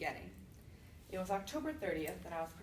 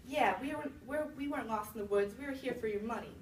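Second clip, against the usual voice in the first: put-on gloating child; 3 semitones higher than usual. Second kid gloating.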